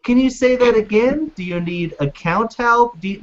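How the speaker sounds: automated phone menu voice; robot voice. Retold or imitated. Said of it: "this fucking robotic voice".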